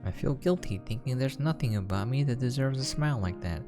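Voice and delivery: ordinary talk, nothing marked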